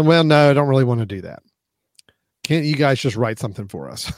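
a hint of a reluctant client, ending in a whisper; lightly voiced client wheedling; mock stingy client. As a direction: play the cheap client, then drop to a sly whisper.

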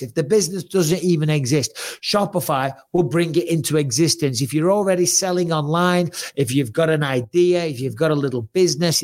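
upbeat sponsor read. Acted. Host pitching the sponsor to listeners, ad read. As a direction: sell it like a podcast ad.

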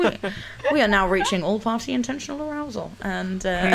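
tannoy announcement voice; over the intercom. Pretend. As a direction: announce it like an airport PA. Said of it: "You know, like that".

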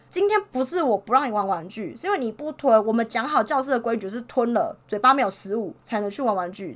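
firm, stern retelling of a scolding; angry scolding. Retold or imitated. Teacher scolds a child who won't swallow, mildly angry. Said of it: "我就真的很生气的骂他说".

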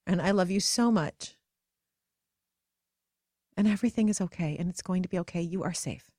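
soothing. Pretend. Soothing her inner child.

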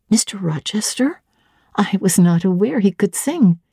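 curious governess pressing for details; young Jane. Acted. Jane surprised.

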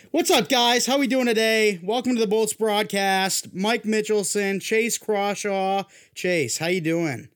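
high-pitched, hyped-up show intro; animated. Shown as a demonstration. Host redoing the intro to hide a worn voice, exaggeratedly animated. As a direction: pitch it way up and greet everyone. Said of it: "I gotta be animated".

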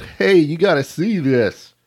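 lightly voiced frat bro yelling; frat boy voice. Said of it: "is that your frat boy voice".

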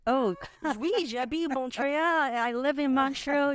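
high, put-on French accent with a laugh; faked French-English accent. Shown as a demonstration. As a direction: ham up a Montreal French accent, pitched high. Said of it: "I have that English and French accent".

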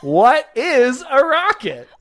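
high, slow, grand question; dramatic announcer. Acted. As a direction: build it up like a game show reveal. Dramatic big question reveal.

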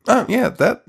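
high, mock-naive "sure, makes sense"; hammed-up agreement in a high voice. Everyone's mock agreement quoted.

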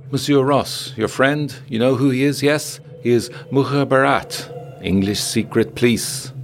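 high-pitched woman passing on a secret; confiding Fatima. A narrator's reading. Fatima warns Ross about his friend, high confiding voice. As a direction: pitch it well up, informing him pointedly.

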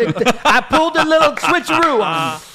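lightly voiced Southern coach, drawled and folksy; Steve Spurrier impression. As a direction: play the old ball coach, a little hammed-up. S1 still voicing Spurrier.

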